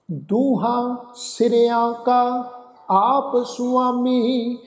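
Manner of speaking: slow, measured recitation with long held vowels; scripture recitation. Acted. Teacher recites Gurbani to the congregation, slow scripture recitation. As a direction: draw out each phrase end on a level tone.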